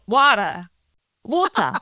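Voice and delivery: water repeated with an American accent. Shown as a demonstration. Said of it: "one more time, please, or two more times".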